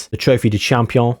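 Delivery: putting on a French accent; mock-French pronunciation. Shown as a demonstration. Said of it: "tried to put a French accent on".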